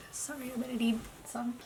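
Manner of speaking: quick whispered aside off to the side; hushed aside. Real, not acted. Whispering an aside to someone off camera while vlogging. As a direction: breathe it fast under your breath, an aside.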